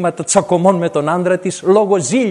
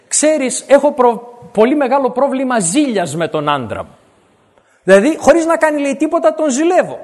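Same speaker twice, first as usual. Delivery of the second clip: lightly voiced troubled woman, higher; a hint of an anxious wife confessing; jealous wife; 5 semitones higher than usual.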